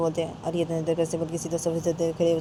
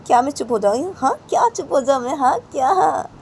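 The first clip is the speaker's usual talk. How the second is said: much higher, louder challenge; defiant challenge; 8 semitones higher, 8 dB louder than usual. Acted. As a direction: fire it back, provoking. Uncle challenging back.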